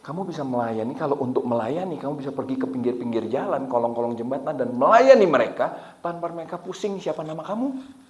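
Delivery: soft, patient inner voice; gentle imitation of God answering. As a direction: explain it quietly and evenly. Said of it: "Terus Tuhan bilang ini".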